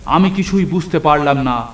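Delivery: put-on boy terrified after seeing the monsters, praying aloud; frightened prayer. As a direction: gasp it out in terror. Terrified narrator prays.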